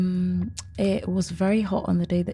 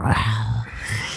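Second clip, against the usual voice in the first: failed growl; 8 semitones lower than usual. Pretend. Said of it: "I can't growl".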